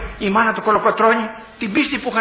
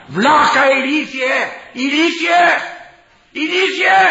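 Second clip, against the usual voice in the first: scolding escalation, each insult higher; mock scolding insult; 7 semitones higher, slower than usual. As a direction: call him an idiot, climbing higher each time. Scolding a foolish father.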